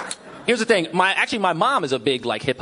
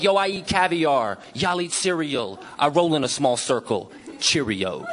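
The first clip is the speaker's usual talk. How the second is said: mock rapper; slower than usual. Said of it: "they'll say something like".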